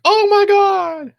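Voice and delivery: drawn-out, high shocked cry of disbelief; imitating a worker finding the bodies; horrified gasp. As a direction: let it rise way up, slow, in horror. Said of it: "the Hispanic worker's like".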